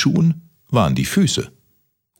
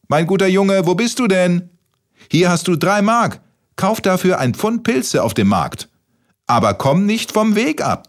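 grandma calling; 11 semitones higher than usual. Acted. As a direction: call out like a fussy old grandma. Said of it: "rief seine gute Oma".

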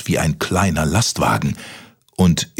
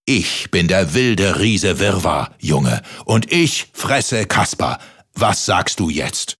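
giant voice; slower than usual. Acted. Giant boasts.

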